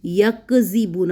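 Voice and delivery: very slow یکذبون, ya held onto kaf; drawn-out careful recitation; tajweed recitation. Shown as a demonstration. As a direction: say یکذبون slowly, binding یک together without a jolt. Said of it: "جھٹکا نہیں دینا،".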